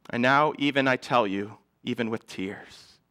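quiet, mildly choked-up imitation of the writer; welling up with emotion. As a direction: let the words drop away as if holding back tears. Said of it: "his emotions are welling up".

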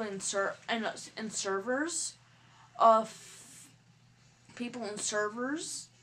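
halting stutter, restarting words. Real, not acted. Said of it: "That's why I'm keep on stuttering".

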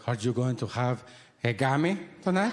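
imitated mother's voice, asking. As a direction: put on your mother's way of talking. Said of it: "she comes up to me and she's like".

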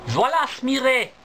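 high alarmed squirrel cry. Acted. Baby squirrels cry a high warning about the fox. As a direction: warn that the fox is coming. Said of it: "se mettent à crier".

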